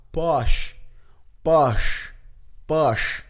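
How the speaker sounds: posh with open short o; English posh. Shown as a demonstration. Teacher contrasting posh with push. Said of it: "nada de push".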